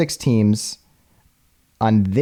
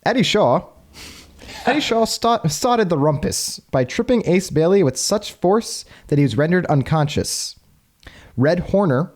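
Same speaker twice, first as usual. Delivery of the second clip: lightly voiced old newsreel reader; old timey voice; 3 semitones higher than usual. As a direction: read it like a 1930s wire report. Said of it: "I kinda read in an old timey voice".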